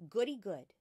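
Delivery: a loud happy cheer; bright burst of childish glee; gleeful little girl; delighted. Acted. Matilda delighted by the idea.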